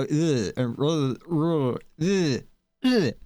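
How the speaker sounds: a strained, gargled attempt at rolling the R, rising at the end; failed rolled R attempt. Shown as a demonstration. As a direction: try to trill the R and fail. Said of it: "relax my tongue and go".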